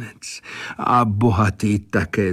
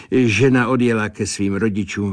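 ordinary delivery

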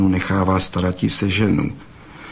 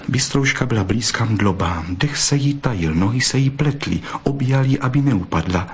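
plain reading voice

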